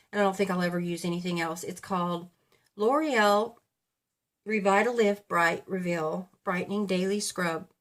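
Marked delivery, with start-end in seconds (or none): 2.8-7.7 talking through hiccups; words broken by hiccups. Real, not acted. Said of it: "I'm got the hiccups again".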